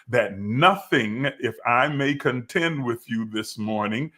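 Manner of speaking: rising, emphatic preaching cadence. Acted. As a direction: preach it with building conviction.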